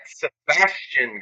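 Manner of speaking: Sebastian drawn out slowly; slow careful name. Real, not acted. Host reading a hard name from the recap, slow and careful. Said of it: "gotta say it slowly".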